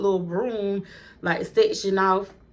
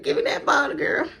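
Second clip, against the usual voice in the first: bold persona; 8 semitones higher than usual. Acted. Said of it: "I had to get my diamond on".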